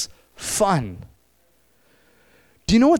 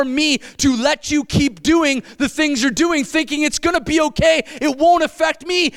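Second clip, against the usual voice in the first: voicing Jesus; 3 semitones higher than usual. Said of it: "And he's saying".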